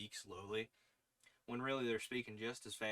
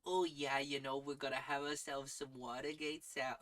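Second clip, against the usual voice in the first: Minnesota accent. Shown as a demonstration. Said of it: "coming out a little, like, Boston".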